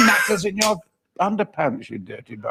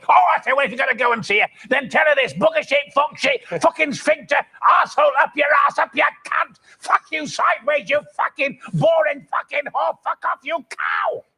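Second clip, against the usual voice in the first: higher, rattled-off stream of curses; swearing tirade; 5 semitones higher than usual. Retold or imitated. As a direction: let rip at the nosy neighbour. Cursing tirade at neighbour.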